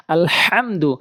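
"আলহামদু" with a pressed mid-throat ha; correct throaty HA. Shown as a demonstration. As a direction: squeeze breath through the H of "আলহামদু". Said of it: "সঠিকভাবে উচ্চারণ হয়".

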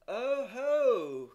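loud, high "oh ho" of triumph; triumphant cry. A narrator's reading. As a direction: crow it like a cook who has caught someone out. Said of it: "cried the cook triumphantly".

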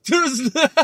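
high, loud laughing through the words; cracking up at a silly word; laughing fit. Real, not acted. Host cracking up at the word chucklehead, laughing hard.

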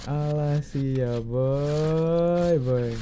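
put-on slow, lightly cutesy anime girl; a hint of an anime girl voice. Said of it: "pakai suara anime".

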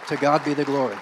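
full-voice praise cry; loud proclamation. Real, not acted. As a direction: shout it to the rafters. Preacher's climactic proclamation.

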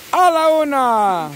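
slow, stretched count to the start; starting countdown. Real, not acted. Host starts the next round, drawn-out countdown. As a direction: draw out each count like a game host.

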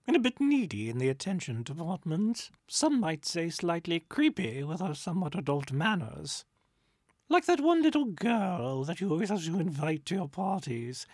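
high, loud, gossipy spirit; catty ghost. A narrator's reading. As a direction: rattle on with theatrical disdain. Ghost voiced, chattering cattily.

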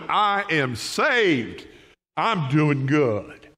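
slow, steady and assured; content believer. Acted. Believer telling the preacher he's saved, slow and assured. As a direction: savour each word like good news. Acted joyful believer reply.

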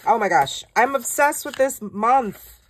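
squealy, obsessed fan voice; excited. Real, not acted. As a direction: gush with real thrill. Gushing over the new month's kit.

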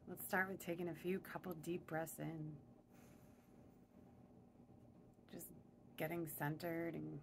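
even, unhurried meditation voice; guided meditation. Real, not acted. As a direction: ease them into stillness, with long pauses. Leads breathing to settle in.

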